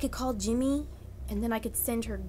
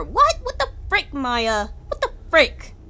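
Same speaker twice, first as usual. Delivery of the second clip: startled. Real, not acted. Sudden game shock.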